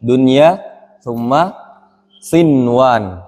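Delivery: "Dunia" and "sinwan" each with a clear n; nun pronounced. Shown as a demonstration. Teacher showing that the nun is read, clearly sounded. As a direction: sound every n in "Dunia, summa sinwan", word by word. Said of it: "Dibaca nunnya".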